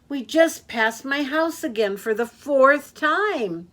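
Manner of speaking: a dizzy passenger pleading; pleading Walrus. Acted. Walrus begging Yak to let him out, high and pleading.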